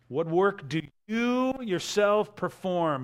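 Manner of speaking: "you" leaned on, slowed; stress on you. Shown as a demonstration. Preacher reading the crowd's challenge, stressing "you". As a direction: hit "you" and "yourself" hard. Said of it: "that's an emphatic statement".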